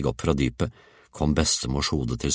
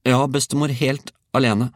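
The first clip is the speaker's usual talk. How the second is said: put-on high, loud child's voice; boy answering; 11 semitones higher, 5 dB louder than usual. A narrator's reading. Georg assures grandmother he did it alone, high call. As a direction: call back firmly, high.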